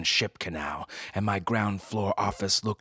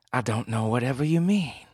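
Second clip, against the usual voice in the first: flustered woman; 6 semitones higher, 4 dB louder than usual. Acted. Flustered liar.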